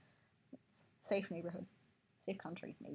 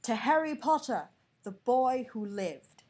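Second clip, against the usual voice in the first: hushed toast; 5 semitones higher, 9 dB louder, slower than usual. Acted. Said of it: "in hushed voices".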